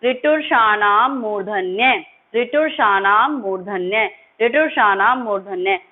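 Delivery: ऋटुषाणाम मूर्धन्य recited slowly with a rise at the end; slow recitation. Shown as a demonstration. Teacher leading the class to repeat the sutra, slow chant. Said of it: "बोलिए इसे आप मेरे साथ".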